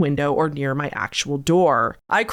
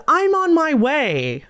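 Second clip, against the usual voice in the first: creepy guy voice; 9 semitones higher, slower than usual. Retold or imitated. Creepy guy's text read aloud.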